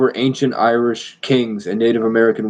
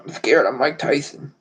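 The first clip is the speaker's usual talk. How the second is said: Mike Tyson; 5 semitones higher than usual. Acted. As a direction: put on a high voice, fretting and threatening by turns. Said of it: "I talk like this".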